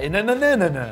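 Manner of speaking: a light rising and falling Alsatian tune; sing-song up and down like montagnes russes; Alsatian singsong. Retold or imitated. Co-host mimicking the Alsatian presenter, mild singsong. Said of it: "elle parle comme ça".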